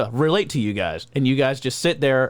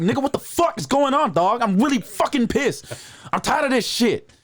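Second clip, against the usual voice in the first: thick Ebonics accent, mad; 11 semitones higher than usual. Shown as a demonstration. Comic shows his mad Ebonics accent in a heavy Ebonics accent. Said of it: "thick, heavy, like, Ebonics accent where I'm like".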